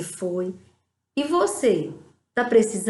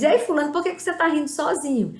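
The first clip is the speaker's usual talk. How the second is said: nosy onlooker; 5 semitones higher, faster than usual. Pretend. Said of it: "Sabe quando a pessoa diz".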